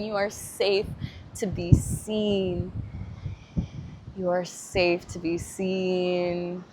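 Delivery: slow and tender, like a mother; a lightly voiced loving mother. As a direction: soothe a frightened child. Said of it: "like you're a mother".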